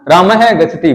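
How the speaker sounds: है pushed out after Ram, falling into गति; stress on है. Shown as a demonstration. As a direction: give है a firm push. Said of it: "बलाघात का काम कर रहा है". (है पर बलाघात)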